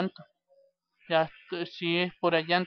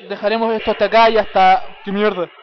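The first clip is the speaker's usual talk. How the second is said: loud exclaiming; 3 semitones higher, 11 dB louder than usual. Real, not acted. Sign-off cut by attack.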